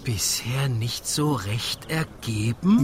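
low, trembling angry echo of "Bisher nicht so recht ergeben"; trembling anger. Acted. Husband repeats his wife's excuse, shaking with anger. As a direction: let the voice quake with fury on "ergeben". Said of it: "das Beben seiner Stimme zeugt von Zorn".

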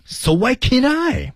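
so why can't I pitched high and drawn out, falling at the end; high, slow so why can't I; high pleading question. Shown as a demonstration. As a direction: ask it high and slow like a begging kid. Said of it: "那么它的停顿是什么样子呢".

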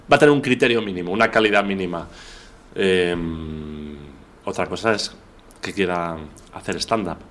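talking around a candy in the mouth; words slightly thick from a sweet in the mouth; sucking a hard candy. Real, not acted. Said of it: "Tengo un caramelo en la boca". (con un caramelo en la boca)

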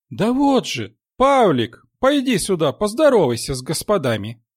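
high, loud call across the platform; nanny hollering for the boy by name. Acted. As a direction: shout for him to come over. Nanny calls the boy over.

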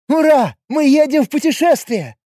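high, loud joyful cheer; overjoyed. Acted. A happy girl cheers about the coming trip, overjoyed. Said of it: "радовалась жизни Джуди".

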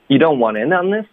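"in" carries the stress in "you don't want in on this". Shown as a demonstration. Teacher correcting a student, stress on "in". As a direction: lean on "in", not on "this". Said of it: "我们的重音应该是in".

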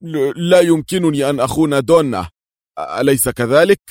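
halting, anxious excuse; stammering. A narrator's reading. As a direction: trip over the first word in fear. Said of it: "يقول في تلعثم".

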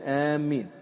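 آمين with a doubled, stressed mm; doubled mim. Shown as a demonstration. Teacher showing students the wrong doubled-mim آمين. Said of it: "هكذا تبطل به الصلاة".

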